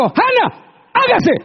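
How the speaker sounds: high, loud, playful command naming a listener; mock divine command. Preacher teasing a listener with a mock divine command. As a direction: call her into being in jest. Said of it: "Dios no dijo".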